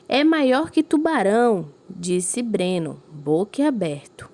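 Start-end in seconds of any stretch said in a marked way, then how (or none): 0.1-1.7 higher and louder, slow and wide-eyed; amazed. Acted. Teacher reading Breno's amazed line to the class. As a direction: gasp it out, astonished by the fish.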